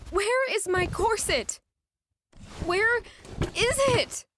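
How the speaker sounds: searching in panic until it cracks into despair; frantic, near tears; distraught. Acted. Frantic search, self-blame.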